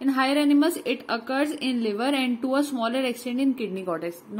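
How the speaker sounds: slow, careful note reading; slow dictation. Acted. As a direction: spell it out for note-taking. Reads English note aloud. (धीरे-धीरे notes पढ़ना)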